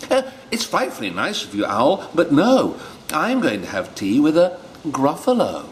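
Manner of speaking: a hint of a brisk little mouse.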